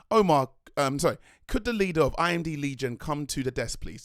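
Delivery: lightly put-on American accent, like a desk announcement; a mock American accent as if over a PA. Vlogger imitating his own call for the crew leader, in an American accent. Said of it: "I did, uh, an American accent".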